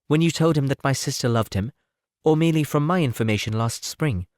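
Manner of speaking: lightly voiced Elizabeth, pointedly curious. Elizabeth questions Darcy, voiced higher.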